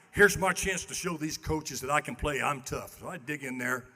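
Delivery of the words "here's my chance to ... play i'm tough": self pep talk. Retold or imitated. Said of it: "I'm pumping myself up".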